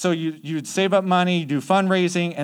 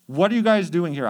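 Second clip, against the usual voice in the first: louder, higher retold challenge; mock indignant demand; 4 semitones higher, 5 dB louder than usual. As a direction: confront them like an affronted guard. Guard confronts missionaries in retold story.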